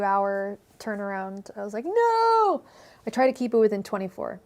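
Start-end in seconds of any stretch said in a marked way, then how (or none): 1.9-2.6 sudden high yelp of horror; high shocked no; mock horror. Real, not acted. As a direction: squeal it in dismay. Horrified at own late turnaround.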